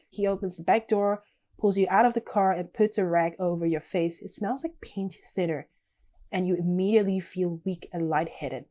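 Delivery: measured second-person storytelling; story narration. A narrator's reading. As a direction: read the story out, settling at sentence ends. Reads game's story text aloud.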